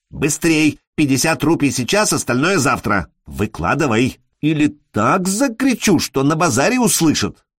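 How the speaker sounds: urgent, nagging demand; insistent threat. Acted. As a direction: pester him for money, threatening. Woman threatens, demanding money at once.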